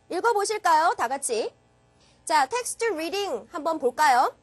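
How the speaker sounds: usual speaking voice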